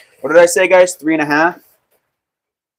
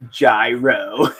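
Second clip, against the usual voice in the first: laughing gyro. Shown as a demonstration.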